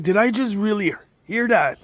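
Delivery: mock-tearful astonished question; retold tearful disbelief. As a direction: replay the stunned disbelief, pitch up. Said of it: "I'm crying and I'm".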